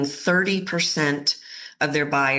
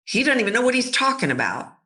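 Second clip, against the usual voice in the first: fast, higher mocking boardroom voices; dismissive colleagues; 4 semitones higher than usual. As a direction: scoff at him, talking over. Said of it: "everybody's making a decision".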